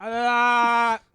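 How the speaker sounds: shouted. Real, not acted. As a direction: yell it with mock anguish. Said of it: "I like that a lot".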